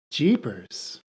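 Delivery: sultry Jeepers. Acted. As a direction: breathe it out seductively. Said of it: "I wish everyone could see your eyebrow flare".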